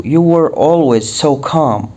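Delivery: calm said as kahm with no L; calm بدون نطق اللام; silent L. Shown as a demonstration. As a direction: drop the L in calm. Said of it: "ال L هنا silent".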